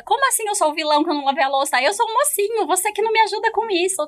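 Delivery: indignação encenada, bem mais aguda e rápida; defesa indignada encenada. Acted. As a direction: se defender como o mocinho ofendido. Briga encenada sobre a louça. (parceiro se defendendo, indignação encenada)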